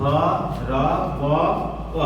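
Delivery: ধ, র, ম spelt out one sound at a time; letter by letter. Shown as a demonstration. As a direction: break ধর্ম into its letters, pausing between. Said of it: "প্রত্যেকটা". (ধর্ম ভেঙে ভেঙে বর্ণ ধরে)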